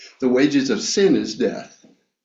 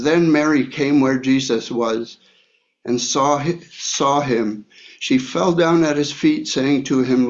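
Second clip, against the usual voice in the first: steady, slightly raised Bible reading voice; scripture reading. Acted. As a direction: read the verses out to the church. Reads scripture aloud to congregation.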